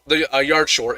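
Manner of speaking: stumbling over words; tripping over the words; stuttering. Real, not acted. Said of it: "I'm stuttering".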